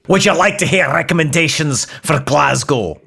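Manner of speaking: Scottish assistant voice; Scottish accent. Acted.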